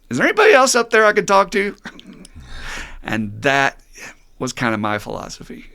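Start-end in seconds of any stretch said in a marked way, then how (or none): 0.1-1.7 high, loud, fast desperate ask; the punchline, pleading; dangling man asks for a second opinion; hopeful punchline plea. Acted. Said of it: "and he goes".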